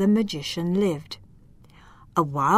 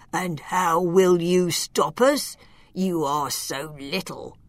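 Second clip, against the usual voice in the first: mocking giant; 2 semitones lower than usual. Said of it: "The giants laughed at her".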